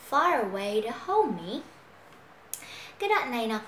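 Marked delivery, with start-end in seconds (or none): 0.1-1.6 "far away" joined, r carried into away; linked sounds. Shown as a demonstration. Teacher models linking for learners, "far away" joined. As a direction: run "far away to hold me" together. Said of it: "Nối".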